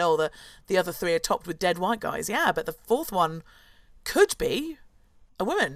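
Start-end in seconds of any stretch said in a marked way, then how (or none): none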